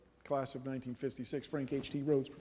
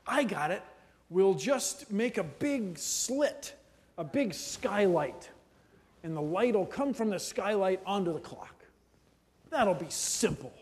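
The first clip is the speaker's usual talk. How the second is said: confident engineer; 2 semitones higher than usual. Retold or imitated. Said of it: "your first idea, if you're a physics, scientist, engineer".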